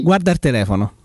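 Roman dialect, "il" said as "er"; Romanesco accent. Real, not acted. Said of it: "sta a parlare romanesco".

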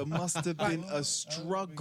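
slow, drawn-out mock detective; overdramatic TV detective. Friend echoing the CSI line, slow mock-dramatic detective. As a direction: stretch it out like a hammy TV cop. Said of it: "was so overdramatic".

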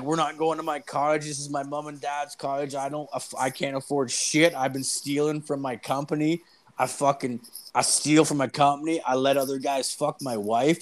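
high, mock-tearful confession; imitated crying drunk. Drunk man confesses to daughter's boyfriend, mock crying. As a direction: confess it like a weepy drunk, lightly acted. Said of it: "and he's crying".

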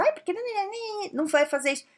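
hammed-up office grumbler griping in the corner; mock whining complaint. A coworker grumbling in the corner, mock whiny.

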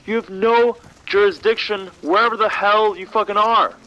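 loud, high, exasperated; angry rant. Acted. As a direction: berate him, disbelieving. Ranting at absurd agent.

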